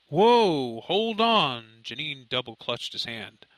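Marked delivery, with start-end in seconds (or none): 0.1-1.8 sudden loud, high stop; startled whoa. Acted. Mother stopping her panicking son, startled and loud. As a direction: catch yourself and rein him in.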